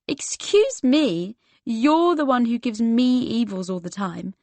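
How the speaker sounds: an exaggerated, slow "excuse me?"; indignant. The speaker snapping back at the narrator: mock-offended indignation.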